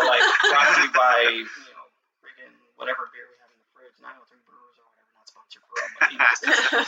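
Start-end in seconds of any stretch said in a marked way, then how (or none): 0.5-5.8 commercial read. Pretend. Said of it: "I should've cut you off and said".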